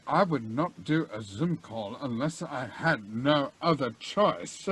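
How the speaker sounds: a hint of McKellen, low and measured; Ian McKellen voice. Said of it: "Sir Ian McKellen, who's gonna, uh".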